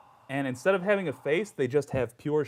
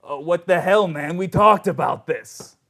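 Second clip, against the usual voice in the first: scolding outburst, louder at the start; an annoyed voice from above, lightly voiced; exasperated god; 6 dB louder than usual. GM as the voice scolds a player, exasperated. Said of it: "a voice goes to you".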